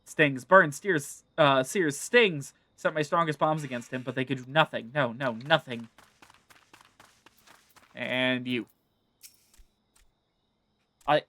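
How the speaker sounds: nervous little kobold gabbling its story; a hint of a fearful kobold; kobold witness.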